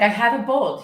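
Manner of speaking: a hint of Marge complaining. Marge telling Homer she doesn't bowl. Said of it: "But she's like".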